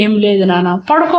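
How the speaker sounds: hushed, gentle soothing; soothing lullaby tone. Acted. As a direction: lull the sick boy back to sleep. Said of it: "అంటూ జో కొట్టాడు".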